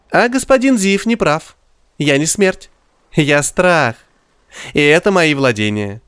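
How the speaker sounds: high, sly rat demon voice. Acted. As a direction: gloat like a sneering rat. Rat Roger's menacing speech.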